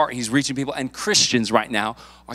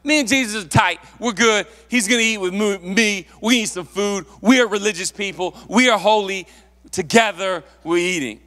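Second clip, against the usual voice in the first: smug insider attitude; 3 semitones higher than usual. Retold or imitated. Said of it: "He almost had this attitude like".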